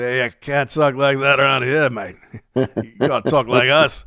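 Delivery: lightly put-on Australian accent; imitated Australian local. Australian local tells the Scottish newcomer off, imitated Australian accent. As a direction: warn him off in a mock Australian accent. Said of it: "moved to Australia and".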